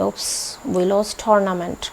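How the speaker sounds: whispered oops then slow, drawn-out sad line; mock sad sigh. Shown as a demonstration. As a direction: let it sink slowly in disappointment. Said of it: "sadness के साथ बोलेंगे".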